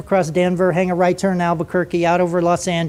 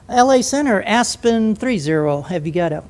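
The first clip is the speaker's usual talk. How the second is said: innocent voice; 4 dB quieter than usual. Retold or imitated. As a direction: ask casually, as if knowing nothing. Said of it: "In his best innocent voice".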